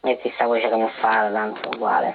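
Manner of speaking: altered voice to hide the caller; deep pitch shifted. Acted. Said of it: "mettiamo una voce camuffata di donna".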